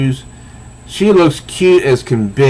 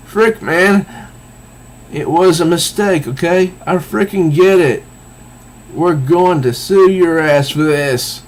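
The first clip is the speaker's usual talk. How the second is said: higher-pitched, indignant complaint; acted indignant protest; 6 semitones higher than usual. Man she just hit threatens to sue, indignant.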